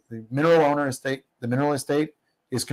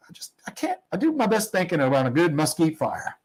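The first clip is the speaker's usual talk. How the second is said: a light imitation of Jay's accent, pitched higher at the start; 5 semitones higher than usual. Storyteller quoting Jay at the rig, in Jay's accent. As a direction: retell the line in Jay's accent, not a full impression. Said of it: "I don't know if that's your accent".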